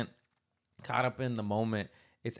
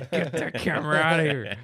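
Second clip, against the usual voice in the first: hammed-up upset kid voice, raised; mock little cousin outburst; imitating little cousin; 4 semitones higher than usual. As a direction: imitate a mortified child protesting. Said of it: "He's like".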